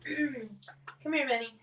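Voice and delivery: bright, rising call to a pet; calling the dog. Real, not acted. Calling her dog Benny over to the camera, rising call. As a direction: call him over with a lift at the end.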